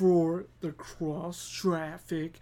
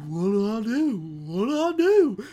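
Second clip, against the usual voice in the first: rising, louder panicked question; imitating mild panic; mock panic; 5 dB louder than usual. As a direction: panic in the crosswalk.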